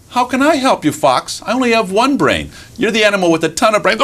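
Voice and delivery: high little mouse voice; mocking mouse. Mouse teases trapped fox about brains, mocking. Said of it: "And mouse looks up".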